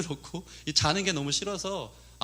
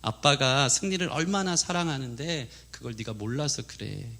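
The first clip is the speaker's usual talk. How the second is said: patiently explaining mother; 4 semitones lower than usual. Retold or imitated. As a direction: gently set the child straight. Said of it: "엄마가 이제 성령님과 같기 때문에 잘 설명해줘요".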